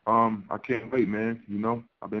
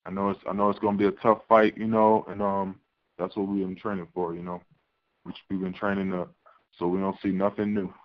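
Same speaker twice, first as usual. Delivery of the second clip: on speakerphone. Real, not acted. Fighter dialed into press call.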